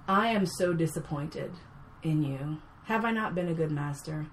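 lightly voiced calm, menacing master; calm, evil master. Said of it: "doing this whole calm and evil thing".

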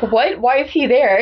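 lightly acted disbelief, rising; puzzled, shocked questioning; mock shock. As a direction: react like a baffled first-time reader. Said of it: "this is just shocking".

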